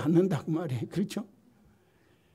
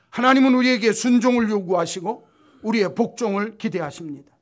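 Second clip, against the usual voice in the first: loud, raised sermon voice pressing the point; forceful preaching; 4 semitones higher, 9 dB louder than usual. Acted. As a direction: drive it home to the congregation.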